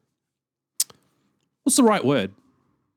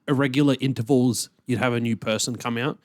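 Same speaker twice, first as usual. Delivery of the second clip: speaking through a wrestling mask; muffled behind mask. Real, not acted. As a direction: talk muffled by a full face mask. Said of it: "so uncomfortable talking with this mask on".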